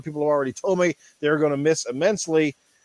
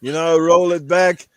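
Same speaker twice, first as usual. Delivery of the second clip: put-on Austrian accent, Arnold style. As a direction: growl it out like the action star. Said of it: "Ask Arnold".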